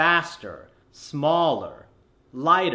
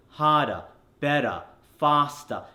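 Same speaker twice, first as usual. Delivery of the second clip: Australian accent. Shown as a demonstration. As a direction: drop the r's the Australian way, word by word. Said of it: "in my Australian accent".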